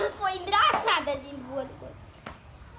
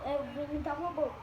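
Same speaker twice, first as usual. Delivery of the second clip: fast, softer robot voice; 2 semitones lower, 6 dB quieter, much faster than usual. Acted. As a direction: rattle it off like a robot. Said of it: "Acho que eu vou imitar um robô".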